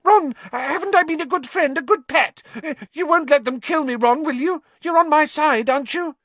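high squeaky grovelling; obsequious. Acted. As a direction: fawn and beg, high-pitched. Pettigrew begs Ron.

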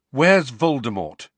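high, loud demand; insistent boy; urgent question. A narrator's reading. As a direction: ask it boldly and urgently. Harry blurts pressing question.

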